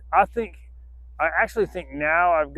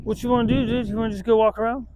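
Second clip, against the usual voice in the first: much higher and louder, fast and bouncy; excited dog talk; 7 semitones higher, 7 dB louder, faster than usual. Real, not acted. Owner cheering her dog on to walk, high, loud and fast. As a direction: pump the dog up to go.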